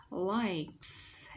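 "Likes" drawn out to a clear S; final S sounded. Shown as a demonstration. Teacher analysing the word, "Likes" with long S ending. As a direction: hold the S that closes "Likes". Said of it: "S ending sound".

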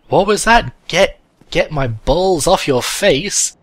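very high loud outraged cries; shocked yelling. Real, not acted. Player yelling at a weird in-game sight, shocked. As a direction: blurt it in disbelief.

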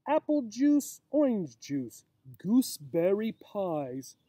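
a hint of a silly doctor, slow and sing-song; doctor's rhyme. Reading the doctor's silly advice to children, lightly sing-song.

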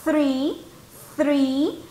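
slow, careful three with the th sound; model three twice. Shown as a demonstration. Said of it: "Ese sonidito que los dientes te pasan rozando la lengua".

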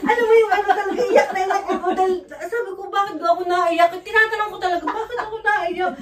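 high, loud, fast nervous laughter through the words; laughing while retelling. Real, not acted. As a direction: laugh it out, half embarrassed at having cried. Recalls crying in church, laughing. (natatawang pagkukuwento, mataas at malakas)

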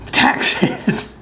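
whispered word Taxes. Real, not acted. Whispered punchline.

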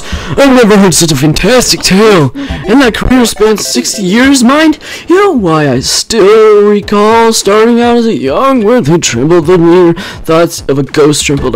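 lightly voiced old storyteller, rambling; a hint of a doddery old professor reading his lines; old man voice. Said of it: "I'm gonna do my old man voice".

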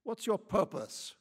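loud, high, building hostile rant; angry tirade. A narrator's reading. Lady interrogates Quichotte about where he's from, furious. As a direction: pile accusations on him.

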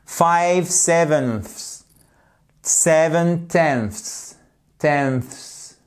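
"sevenths" and "tenths" spoken very slowly, the "ths" endings stretched out; slow down and lean on the "ths" cluster; careful th-s sound. Shown as a demonstration. Teacher drilling francophones on the hard "ths", very slow. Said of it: "le plus difficile à prononcer".

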